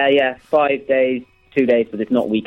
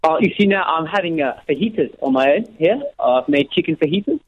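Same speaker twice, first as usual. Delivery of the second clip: put-on South African voice; South African accent; 3 semitones higher than usual. Caller describes his lunch to the host, South African accent. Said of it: "You do South African".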